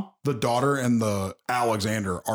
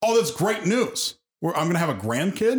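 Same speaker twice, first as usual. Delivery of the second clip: mock delight; 5 semitones higher than usual. Acts out a father hearing pregnancy news.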